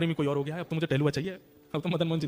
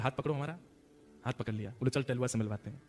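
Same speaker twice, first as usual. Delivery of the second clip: much softer, lower, gentle; tender invitation; 7 semitones lower, 11 dB quieter than usual. Acted. Goswami ji tenderly leading Kale Khan into the temple. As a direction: take his hand kindly.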